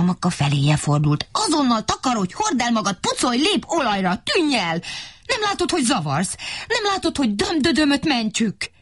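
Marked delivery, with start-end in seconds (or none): 1.3-8.7 higher, rapid scolding; irritated scolding. Acted. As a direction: shoo the pest away impatiently. Mikka Makka chases her away. (magasabb, türelmetlen szidás)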